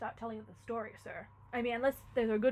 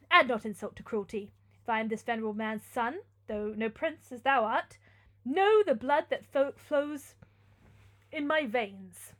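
louder, measured, noble defiance; indignant young Theodore; 7 dB louder than usual. Acted. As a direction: declaim as a wronged young hero.

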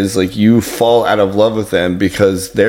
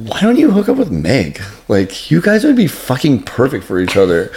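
imitated client; 4 semitones higher than usual. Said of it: "but she was like".

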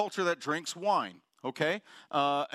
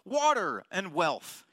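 mock pleading; 8 semitones higher than usual. Preacher mocking believers who ask only for blessing. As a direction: play the congregation begging for the good rain. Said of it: "we're like".

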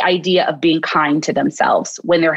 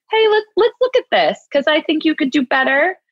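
encouraging self-talk; 3 semitones higher than usual. Shown as a demonstration. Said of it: "I'm saying".

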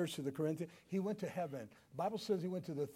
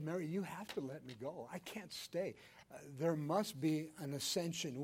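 gentle Jesus; 5 dB quieter than usual. Acted. Jesus gently tells Mary.

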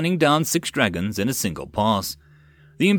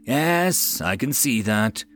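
sarcastic; slower than usual. Acted. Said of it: "rolled her eyes in soldier's words".

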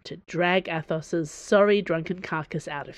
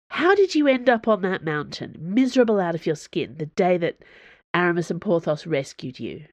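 challenging. Acted. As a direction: confront him, demanding an answer. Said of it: "she challenged him".

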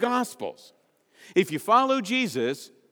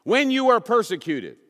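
1 scripture read; 5 semitones higher, 6 dB louder than usual. Acted. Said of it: "Next one".

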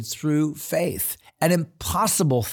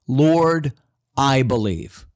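loud, firm declaration of belief; emphatic cry; 4 dB louder, slower than usual. Retold or imitated. Father crying out to Jesus, loud and emphatic. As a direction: cry it out with conviction. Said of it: "That sounds like an emphatic statement".

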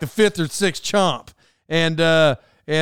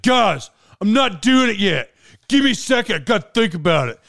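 whining; 3 semitones higher than usual. Retold or imitated. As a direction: imitate a friend pleading for time. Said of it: "how people talk when they start whining".

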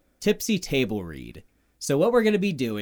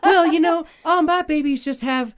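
laughing; 13 semitones higher, 6 dB louder than usual. Real, not acted. Laughing mock reply.

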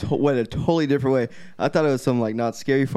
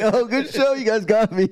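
mock applause; 8 semitones higher than usual. Imagined applause for fake show.

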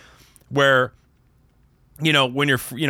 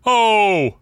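higher, louder mock New Jersey mobster yell; Sopranos-style crowd yell; 9 semitones higher, 6 dB louder than usual. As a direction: bellow it like a Sopranos extra. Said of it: "It was totally like a Sopranos".

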